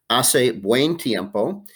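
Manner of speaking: "Hace buen tiempo" said slowly, silent H, AH-seh; slow teacher model of "Hace buen tiempo"; slow Spanish model. Shown as a demonstration. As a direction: modelo lento. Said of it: "four answers that begin with a word called hace".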